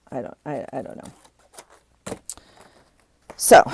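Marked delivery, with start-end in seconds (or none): 0.1-2.2 whispered. Real, not acted. Trailing off, frustrated at waste.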